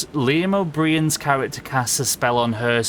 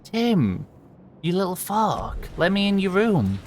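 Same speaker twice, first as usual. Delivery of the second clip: pleading yell; 8 semitones higher than usual. Real, not acted. Locked out by Tim in game.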